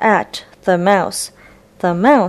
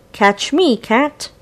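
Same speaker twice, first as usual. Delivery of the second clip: mouse voice; 4 semitones higher than usual. Acted. Mouse character voiced in story.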